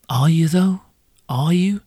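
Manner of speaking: sceptical whisper; breathy doubtful aside. Real, not acted. Sceptical challenge to bartender.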